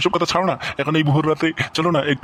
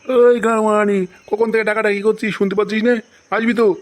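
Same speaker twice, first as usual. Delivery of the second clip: calling out; 4 semitones higher than usual. Acted. Husband yelling for his wife.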